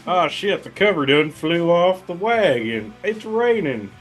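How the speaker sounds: high, excited hillbilly panic; hammed-up yokel yelling about rain on the barrels; mock hillbilly distiller. Mock distiller panicking over rain-soaked barrels, hillbilly voice.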